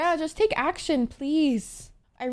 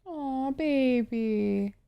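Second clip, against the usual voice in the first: tender aw; 7 dB quieter, much slower than usual. Real, not acted. Pitying a character on screen.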